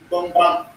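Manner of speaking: "Bang, bang" as two distinct syllables for learners; pronunciation model. Shown as a demonstration. Teacher correcting the class's pronunciation, demonstrating "Bang, bang". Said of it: "the pronunciation is your problem".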